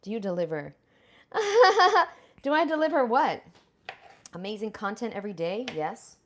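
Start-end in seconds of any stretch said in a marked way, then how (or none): 1.3-3.4 high loud laugh into a question; much higher, louder laughing reply. Real, not acted. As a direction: laugh it out, amused.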